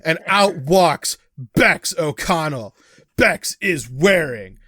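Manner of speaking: loud, slow, drawn-out introduction; big deliberate game-master reveal; ring entrance announcement. Acted. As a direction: announce the wrestler's entrance, stretching each word.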